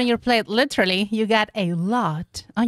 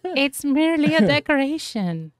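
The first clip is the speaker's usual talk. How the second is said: high loud mocking voice, fast; mocking quote; 6 semitones higher, 5 dB louder than usual. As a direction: mimic the commenters mockingly. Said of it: "people are saying".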